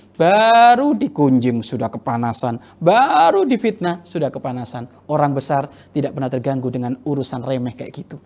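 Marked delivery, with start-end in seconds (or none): 0.1-2.6 mock outrage. Mocking quick offence. 2.8-4.8 mock exclamation. Mocking quick offence.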